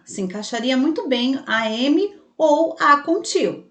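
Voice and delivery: ordinary talk, nothing marked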